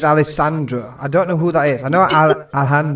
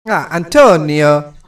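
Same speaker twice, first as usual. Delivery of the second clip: mock Italian; 7 dB louder, slower than usual. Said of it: "I have to do the Italian little hand".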